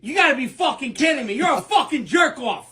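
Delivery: brash Italian-American guy bickering in a sketch; hammed-up Italian-American accent, swearing and mocking. Acted sketch with Italian voices.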